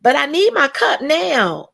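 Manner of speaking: suddenly drops the niceness to demand; impatient demand. Shown as a demonstration. Mock politeness cracks.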